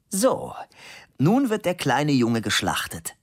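mock menace in a high playful voice; playful high teasing. Blonde playfully teasing the young man, high mock threat.

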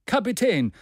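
deeply moved. A narrator's reading. Maston appeals to the captain, moved. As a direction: address him with heartfelt urgency. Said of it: "sagte darauf J T Maston mit tief bewegtem Herzen".

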